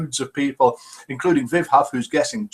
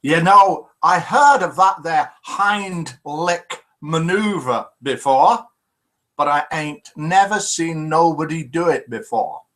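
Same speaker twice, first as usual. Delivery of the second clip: hillbilly partner; slower than usual. Acted. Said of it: "His hillbilly partner, friend, says to him".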